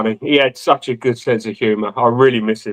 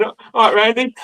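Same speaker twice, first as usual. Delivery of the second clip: acted greeting; 7 semitones higher than usual. Acting out own night call.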